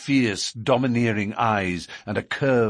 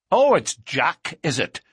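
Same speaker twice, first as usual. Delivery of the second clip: angry jeer; 6 semitones higher, 5 dB louder than usual. A narrator's reading. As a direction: throw the name back jealously. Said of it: "said Baldwin with an oath".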